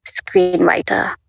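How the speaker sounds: slow, deliberate single word as a divine voice; voice of God. Retold or imitated. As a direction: announce it slowly like God speaking. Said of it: "I heard the voice of God".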